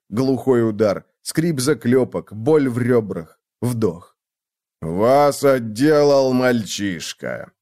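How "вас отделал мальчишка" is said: slow, far, taunting rumble; mocking remark. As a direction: sneer at the beaten thugs. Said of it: "заметил Вард". (насмешливое замечание великана)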